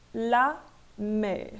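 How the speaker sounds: la mer with open E and sounded French R; pronounced R. Shown as a demonstration. French teacher modelling a one-syllable exception, R sounded. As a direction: say la mer slowly, finishing on the R. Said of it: "eu vou pronunciar aqui".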